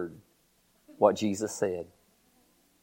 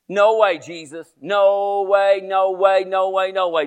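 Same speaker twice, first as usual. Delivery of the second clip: higher, repeated protest tumbling out; insistent denial; 3 semitones higher, slower than usual. Acted. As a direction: act out stubborn refusal, easing off as it repeats. Peter keeps protesting in story.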